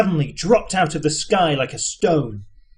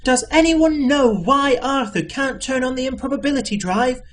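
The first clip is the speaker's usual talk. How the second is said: higher shouted question; shouting Trillian; 8 semitones higher than usual. A narrator's reading. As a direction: call it out above the noise. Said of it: "shouted Trillian".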